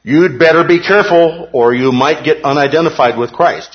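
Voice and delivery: mock warning. Mocking a warning from opponents.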